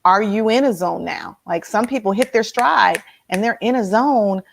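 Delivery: ordinary talk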